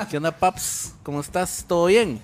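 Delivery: bro greeting. Retold or imitated. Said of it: "hay mara que habla así".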